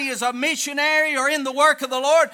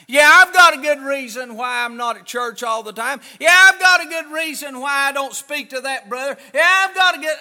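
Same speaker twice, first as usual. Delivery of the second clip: mock excuses, building; 4 dB louder than usual. Preacher voicing excuses, building.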